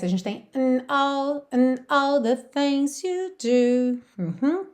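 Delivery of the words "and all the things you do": "and" barely voiced, sung on into "all the things you do"; swallowed and. Shown as a demonstration. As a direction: let the "and" almost vanish. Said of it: "esse and quase não aparece". ("and" quase sumido, cantado devagar)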